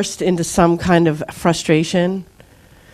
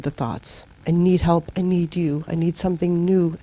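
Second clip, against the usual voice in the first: humble prayer; 2 semitones lower, 3 dB quieter than usual. Shown as a demonstration. Model prayer asking for help.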